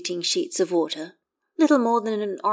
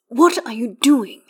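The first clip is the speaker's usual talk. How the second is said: slow, high and loud demand; 6 semitones higher, 6 dB louder, slower than usual. A narrator's reading. Astarion confronts soaked Gale, slow loud demand. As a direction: press him for an answer, high and slow. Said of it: "Astarion demands".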